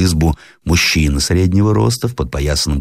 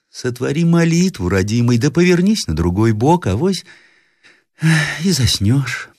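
raised-pitch granny voice; gentle grandmother; 10 semitones higher than usual. A narrator's reading. Grandmother tells grandson to pray and sleep, gently. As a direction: coax the child tenderly to sleep.

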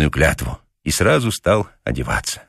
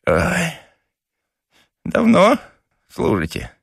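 slow, pained groans with a sudden higher question; injured papasha groaning; 4 semitones higher, much slower than usual. A narrator's reading. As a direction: moan over the aching head. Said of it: "и застонал".

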